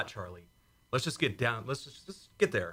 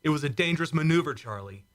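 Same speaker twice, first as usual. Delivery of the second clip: angry reproach; 5 semitones higher, 4 dB louder than usual. Acted. Argument about dangerous maneuver.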